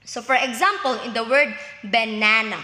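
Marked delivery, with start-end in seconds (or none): 1.8-2.6 "banana" with the middle syllable leaned on; stress on second syllable. Shown as a demonstration. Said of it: "the stress is on the second syllable".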